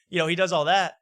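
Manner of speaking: usual speaking voice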